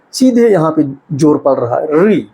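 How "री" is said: री said crisply with the tongue curled back; syllable demo. Shown as a demonstration. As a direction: demonstrate री with the tongue tip curled up. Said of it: "एक बार उच्चारण करके आप देखिए". (री को जीभ मोड़कर साफ़ बोलना)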